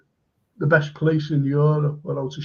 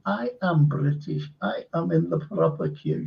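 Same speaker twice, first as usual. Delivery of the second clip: put-on German accent; 4 dB quieter than usual. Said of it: "should have heard him".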